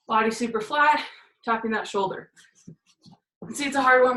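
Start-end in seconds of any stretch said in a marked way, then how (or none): 3.5-4.2 breathing hard after exercise; winded, catching breath between words. Real, not acted. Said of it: "I'm a little bit out of breath".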